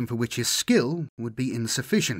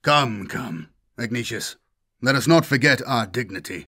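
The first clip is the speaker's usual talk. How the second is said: soothing. Acted. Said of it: "soothed Kalen".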